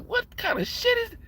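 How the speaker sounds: retold outrage at the draft chatter; outraged. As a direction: demand it like you can't believe them. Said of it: "I'm like".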